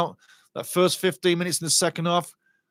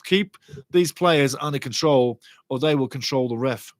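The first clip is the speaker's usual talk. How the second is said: ordinary talk, nothing marked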